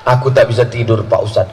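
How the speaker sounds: a hint of a fretful dad confessing his fears; worried father. Doctor confides sleepless worry to the ustadz, low and anxious.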